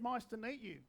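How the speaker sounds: "Nice to meet you" said as "mice to neet you"; muddled greeting. Retold or imitated. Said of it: "mumbles the words".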